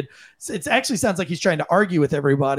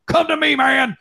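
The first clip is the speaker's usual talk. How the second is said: higher calling cop voice; imitating cop call; 8 semitones higher than usual. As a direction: call him over like a cop. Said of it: "You've got the D O T guy going".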